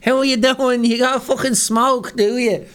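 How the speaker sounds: high-pitched, hammed-up Irish accent; Irish local chatting up a mate, pitched high; thick Irish accent. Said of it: "no one from Ireland would ever say".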